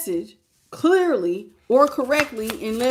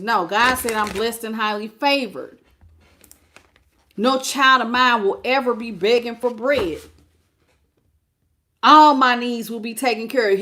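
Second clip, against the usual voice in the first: bold affirmation; 4 dB louder than usual. Shown as a demonstration. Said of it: "speaking affirmations".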